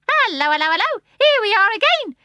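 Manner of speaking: high, loud joyful squawk; starling arriving back, screaming with joy. A narrator's reading. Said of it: "he screamed joyfully".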